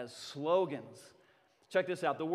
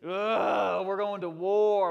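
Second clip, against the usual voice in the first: loud, growing battle roar; taunting war cry; 3 semitones higher, 8 dB louder, slower than usual. Acted. Preacher acting out taunting the enemies, loud war cry.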